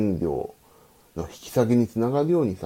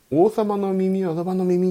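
mild mock call, higher and drawn out; 穴に叫ぶ真似; 9 semitones higher, slower than usual. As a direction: pretend to shout a secret into a hole, slowly. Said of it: "大きな声で言って". (穴に向かって軽く叫ぶ真似)

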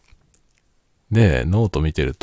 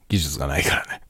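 soft whispered aside; quiet at night; 2 semitones lower, 3 dB quieter than usual. Real, not acted. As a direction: whisper it to yourself. Muttered aside after a remark.

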